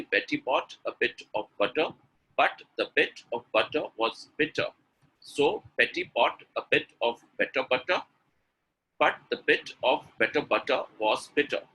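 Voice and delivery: deliberate, each word set apart; very slow reading. Shown as a demonstration. Teacher modelling the entire tongue twister, very slowly. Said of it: "read entire text very slowly".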